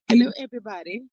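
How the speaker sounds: put-on English accent; England voice. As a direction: greet everyone in a mock English accent. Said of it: "That's my England voice".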